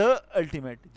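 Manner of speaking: "the" with a schwa before "ultimate", loud; "the" wrongly as "duh". Shown as a demonstration. Teacher showing the mistake, "the" said "duh" before "ultimate". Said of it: "تو یہ ہمارا غلط ہوگا".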